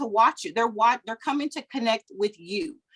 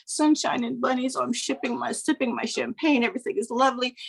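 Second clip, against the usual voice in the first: higher-pitched mock-blissful gushing; fake perfect cheer; 3 semitones higher than usual. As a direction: pretend everything is perfectly lovely. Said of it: "pretend your chaos doesn't exist and you have this perfect".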